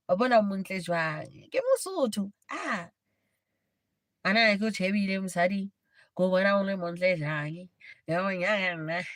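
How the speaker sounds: lightly imitating a Lesotho accent; a hint of a Lesotho Sesotho accent in mock flirting. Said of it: "the whole Lesotho accent".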